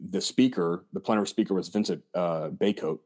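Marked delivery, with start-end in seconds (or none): 2.5-3.0 Baycoat said as BAY-coat; tentative name pronunciation. Shown as a demonstration. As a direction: say Baycoat as two parts, "bay" then "coat". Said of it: "I think you pronounce his last name".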